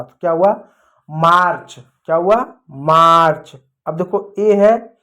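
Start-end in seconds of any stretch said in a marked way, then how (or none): 1.1-1.8 मार्च with a drawn-out आ, falling; long आ sound. Shown as a demonstration. Teacher answering own question, long आ in मार्च. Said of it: "आ पढ़ा". 2.7-3.6 मार्च louder, with आ stretched out; long आ sound. Shown as a demonstration. Teacher repeating the answer, loud long आ in मार्च. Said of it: "आ पढ़ा".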